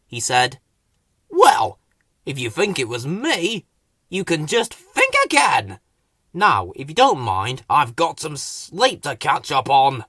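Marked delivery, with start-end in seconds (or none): 1.3-10.0 mildly grumpy, just woken; a touch of cross sleepiness; lightly grumbling at being woken. Acted. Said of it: "not at all pleased to be woken up".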